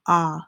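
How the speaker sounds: "ah" as an open short O; short O sound. Shown as a demonstration. Teacher naming the vowel the listed words share, "ah" sounded out. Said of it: "short O sound".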